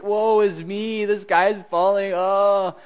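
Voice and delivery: loud, high, slow mock wail; hammed-up lament. Preacher acts out overwhelmed Naomi, loud hammed-up wail. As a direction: ham up Naomi's despair to the rafters. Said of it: "she has this attitude like".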